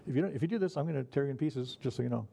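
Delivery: a cheerful warning with a smile; sweetly nice. Retold or imitated. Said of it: "He can be really nice, going".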